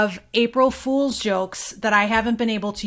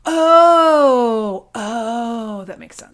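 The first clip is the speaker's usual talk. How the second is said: hushed realization; 2 semitones higher, 9 dB louder, much slower than usual. Real, not acted. Realizes the author.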